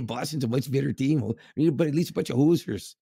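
a lightly put-on Canadian accent, playful heckling. Fan chirping the Leafs at the game, mild Canadian accent. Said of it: "in a Canadian accent".

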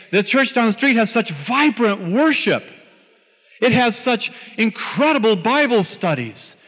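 lifted, gushing mock enthusiasm; raving admirer. Parishioner raving about the church down the street, enthusiastically. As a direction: gush about it, leaning on each praise word.

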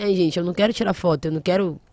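recusa cansada, em tom mais baixo; cansada e estressada. Retold or imitated. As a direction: imitando um artista sem paciência. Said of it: "muito cansado ou estressado em algum momento". (fala cansada, de saco cheio)

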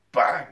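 loud, sudden bang; gunshot bang. A narrator's reading. Narrator voices the rifle firing, loud bang. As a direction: punch it out like a shot. Sound effect of the shot.

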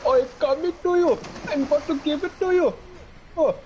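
high-pitched mock moaning; mock porn voice. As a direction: ham up a cheesy porn actor. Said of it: "watching Indian porn".

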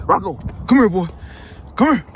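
high sing-song call to the dog; dog-talk call. Real, not acted. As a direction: coax the puppy over sweetly. Calling dog in high pet voice.

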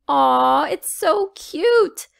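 high slow delighted coo; squealing aww. A narrator's reading. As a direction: gush over something adorable. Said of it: "said Flower Girl".

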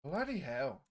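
lightly attempted British accent. Shown as a demonstration. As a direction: copy the demonstrated British accent. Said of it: "say that with a British accent".

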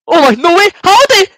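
high, loud yells of joy after a goal; excited yelling. Real, not acted. Fan yelling at his screen as his team scores, high and loud. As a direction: shout it out, can't believe the goal.

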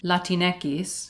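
Latinx as "la-tin-EH-kees"; Spanish pronunciation of Latinx. Shown as a demonstration. Presenter shows the Spanish way, Latinx as "la-tin-EH-kees". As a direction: end Latinx on the Spanish letter name "equis". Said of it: "and then in Spanish".

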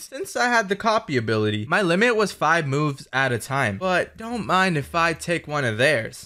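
steady even recap narration voice; story recap narration. A narrator's reading. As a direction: narrate the episode recap calmly. Recap narration over footage.

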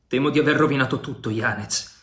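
regretful, voice dropping at the end; sad voice. Acted. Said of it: "disse il pirata con voce triste".

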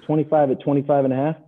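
unsure parroting. Retold or imitated. Newcomer repeating the quote into the phone, unsure parroting. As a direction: imitate a novice relaying words.

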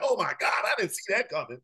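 hushed, mock-amazed gasp; a lightly voiced startled God; mock shocked God. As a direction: play God as caught off guard. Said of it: "think that God is man and he's sitting up in heaven shocked".

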